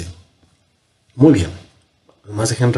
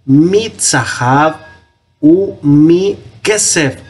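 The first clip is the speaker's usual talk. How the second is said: slow careful read; 3 semitones higher, slower than usual. Shown as a demonstration.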